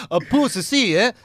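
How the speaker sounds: Swedish-style "pussy" with an added syllable; imitated Swedish accent. Comic quoting what the bouncer called his friend, mock Swedish accent. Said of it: "Mad extra syllables in the word pussy".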